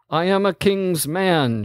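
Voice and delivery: shouted. Acted. Cornered ranger shouts at the commander, defiant shout. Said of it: "shouted the ranger".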